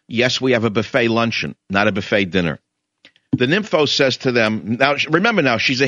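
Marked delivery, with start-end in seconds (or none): 0.1-2.6 understated polite correction, falling lower at the end; politely explain, keeping it even; mildly polite. Retold or imitated. Indian restaurant owners answering a pushy customer, mildly polite. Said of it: "they say very politely".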